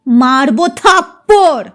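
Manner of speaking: slow mild threat; roar. Acted. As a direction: growl the threat, understated. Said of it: "মা গর্জে উঠলেন". (হালকা গর্জন)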